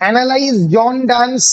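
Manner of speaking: very slow, phrase by phrase; drawn-out dictation with long gaps. Real, not acted. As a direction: dictate slowly, pausing for pens to catch up. Dictating question for students to write.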